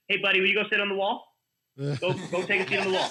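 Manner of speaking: put-on calm, easy teacher asking a kid to sit; gentle teacher voice. Shown as a demonstration. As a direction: soften it like you're talking to a little kid. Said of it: "be like".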